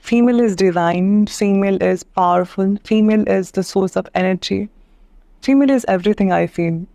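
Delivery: "female" stressed at the start of each slow line; slow, emphatic declaration. Real, not acted. Slow emphatic declaration about women. (हर पंक्ति में "female" पर ज़ोर, धीमी और दृढ़ घोषणा)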